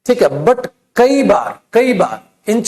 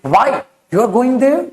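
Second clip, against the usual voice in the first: "Why", a beat, then "you are going there" higher and rising; pause after WHY; 3 semitones higher, much slower than usual. Shown as a demonstration. Teacher offers the spoken alternative, pause after "Why", rising end. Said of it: "Otherwise you can say".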